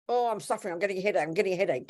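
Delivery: hurried, repetitive mock whine; mock complaining. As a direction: rattle off a pretend complaint. Mocking an imagined meditator's complaint.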